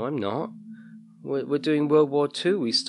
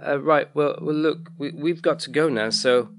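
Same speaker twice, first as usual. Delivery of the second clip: put-on higher, stammering boy; flustered, edging away with pitched-up voice; nervous excuse; 5 semitones higher, 4 dB louder than usual. A narrator's reading. Boy making excuses to leave a stranger, nervously stammering.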